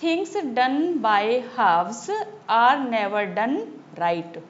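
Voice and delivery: measured recitation, very slow; slow reading aloud. Acted. Teacher reading the poem to her class, slow and measured. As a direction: read each word slowly and clearly for the class.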